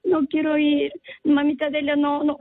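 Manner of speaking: a hint of a tearful little girl saying no; mild imitation of a child begging grandma; little girl refusing. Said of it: "me dice".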